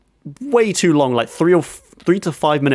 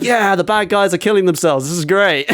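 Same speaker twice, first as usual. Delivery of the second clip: delighted higher-pitched mock approval; imitated cheering crowd; 6 semitones higher than usual. Audience applauding as bad guys kill themselves, mock cheering. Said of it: "everyone's applauding 'cause they're like".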